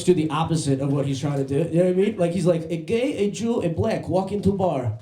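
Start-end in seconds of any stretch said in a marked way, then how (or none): 2.7-5.0 high, broken English in a mock Serbian accent; comic heavy Serbian accent. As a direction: imitate a Serbian driver telling a joke, pitched up. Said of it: "his English is so bad".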